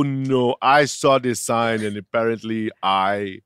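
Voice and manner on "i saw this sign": mock Swedish accent. Co-host imitating Ulf in a mock Swedish accent. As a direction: drag out the words in a put-on Swedish accent. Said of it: "I don't know what this accent is".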